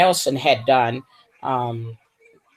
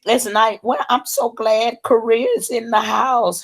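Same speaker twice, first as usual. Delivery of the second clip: higher, lively welcome; glad welcome; 7 semitones higher than usual. Real, not acted. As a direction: hype up the viewer from Korea. Welcoming Korea viewer.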